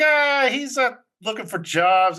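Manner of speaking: high-pitched retold stalling; light put-on high voice; mock wife's excuse. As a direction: imitate a wife casually covering. Wife's excuse about absent husband.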